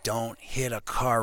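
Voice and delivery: slow, deliberate instruction; retold slow warning. Telling his buddy how to drive, slow warning. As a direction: draw out the warning word by word.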